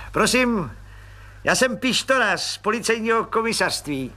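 high, eager voice of a fawning little clerk; fawning little policeman. Acted. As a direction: squeak up importantly like a nosy petty cop.

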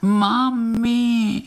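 very high, drawn-out little cry for mum; tiny crying voice. Acted. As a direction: wail like a tiny lost cricket. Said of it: "jako by někdo křičel". (tenký úpěnlivý hlásek volající mámu)

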